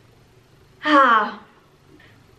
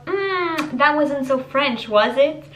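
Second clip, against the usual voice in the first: playful mock innocence; 2 semitones higher, much slower than usual. The speaker answering friends who say she can't speak French, sheepish and teasing. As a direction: play dumb with a cheeky grin. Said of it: "Je suis en mode".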